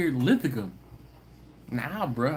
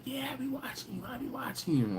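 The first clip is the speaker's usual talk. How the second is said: put-on drunk fan; 11 semitones higher, 8 dB quieter than usual. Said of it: "He was like".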